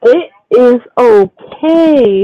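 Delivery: drawn-out, very slow reassurance; reassuring. Real, not acted. Friend comforting an overwhelmed speaker, slow and reassuring. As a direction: stretch each word out to comfort.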